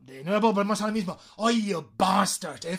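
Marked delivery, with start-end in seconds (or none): 1.4-2.6 "bastard" with a leaned-on B and long first vowel; slow "Oh, you", then burst the B of "bastard"; strong B. Shown as a demonstration. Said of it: "Fijaos cómo pronuncia la B". ("bastard" con la B bien marcada)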